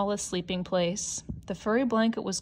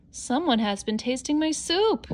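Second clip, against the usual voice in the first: mild roar; 6 semitones higher than usual. Acted. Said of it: "he roared".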